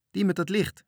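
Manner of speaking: high, loud yell; shrieking. A narrator's reading. Cook points sleepy sailors to the light, shrieking. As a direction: yell it across the water. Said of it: "gilde Marinka".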